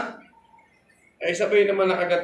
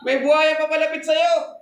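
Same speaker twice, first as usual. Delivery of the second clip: high, loud frantic cry to her son; mother screaming; 10 semitones higher, 4 dB louder than usual. Retold or imitated. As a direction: yell the warning across the lake. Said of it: "Nagsisigaw yung nanay". (sigaw ng nanay sa anak, malakas at mataas)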